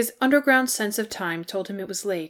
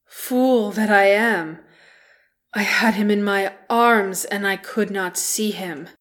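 anguished outcry; 6 dB louder than usual. A narrator's reading. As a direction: cry out in self-reproach. Thorin's anguished outburst.

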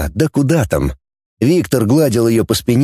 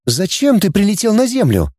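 higher, curious question; girl Dana asking; 9 semitones higher than usual. A narrator's reading. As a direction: ask him, girlish and curious. Dana asks. (девичий голос, вопрос с любопытством)

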